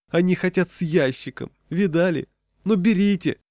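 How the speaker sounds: high, pained protest; suffering cry. A narrator's reading. Peddler surrendering his box to buyers, high suffering protest. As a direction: give in with loud agony. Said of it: "невыразимо страдая, закричал".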